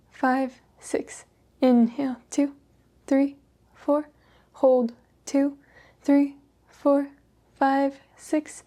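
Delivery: unhurried breath-count pacing; guided yoga breathing. Acted. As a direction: guide them calmly through each breath, leaving space. Leads slow yoga breathing.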